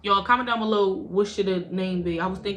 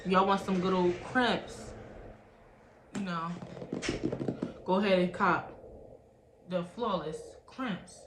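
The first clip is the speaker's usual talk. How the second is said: attempted rhyming pitch; 4 dB quieter than usual. Vlogger urging viewers to buy crimpers, halting rhyme attempt. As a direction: draw out an improvised sales rhyme. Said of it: "I tried to rhyme".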